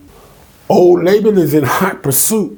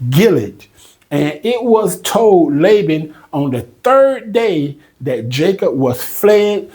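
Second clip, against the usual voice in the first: slow, measured reading of the verse; scripture reading; 2 semitones higher, slower than usual. Acted. Preacher reading the Bible passage to the congregation, slow and measured. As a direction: lay each phrase out slowly, like reading from the pulpit.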